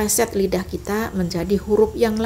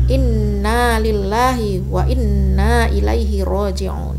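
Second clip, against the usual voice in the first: model recitation; slower than usual. Shown as a demonstration. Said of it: "ini bacaan doanya".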